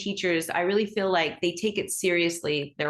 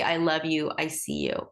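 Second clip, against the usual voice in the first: gentle reassurance; 3 semitones lower than usual. Shown as a demonstration. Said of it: "you can say".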